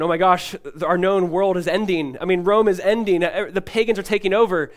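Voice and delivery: imitating frightened believers, lightly; mock panic. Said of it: "Christians were beginning to panic and freak out".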